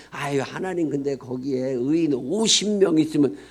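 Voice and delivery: a touch of Abraham beating around the bush; lightly voiced coy bargaining; Abraham hedging. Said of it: "괜히 그냥 엄하게".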